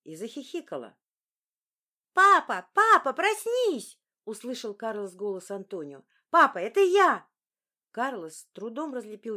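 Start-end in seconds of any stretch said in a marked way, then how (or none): 2.1-4.0 put-on high, loud little boy calling; child calling. A narrator's reading. Small son calling his father loudly to wake him up. 6.3-7.3 put-on high, loud little boy calling; child calling. A narrator's reading. Small son calling his father loudly to wake him up.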